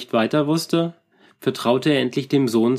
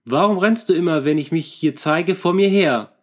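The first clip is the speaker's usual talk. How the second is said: higher, raised scolding voice; blustering; 4 semitones higher than usual. Acted. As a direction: bluster at the silent figure. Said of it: "Moy polterte weiter".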